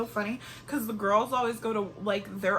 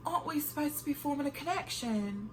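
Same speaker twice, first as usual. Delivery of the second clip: mock British accent, a touch softer; 4 semitones higher, 4 dB quieter than usual. Shown as a demonstration. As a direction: ask it like a posh Brit, half in jest. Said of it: "I'm about to ask it in my British accent".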